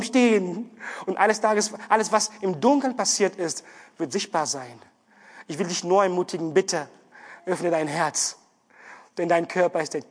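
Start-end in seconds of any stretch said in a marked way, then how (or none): none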